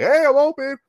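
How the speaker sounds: high-pitched call for a pass. Retold or imitated. Cherry picker calling for the ball, eager shout. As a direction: call to a teammate, acted.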